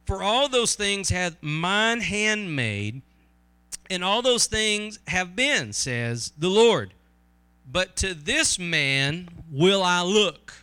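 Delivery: slow, deliberate scripture reading. Acted. Preacher reads Isaiah to the congregation, slow scripture reading. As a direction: read the verse out slowly and weightily.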